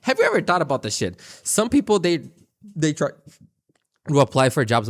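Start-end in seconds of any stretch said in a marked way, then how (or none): 1.4-4.9 stumbling over the first words; real stutter, words catching. Real, not acted. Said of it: "Oh my God, I'm stuttering hard".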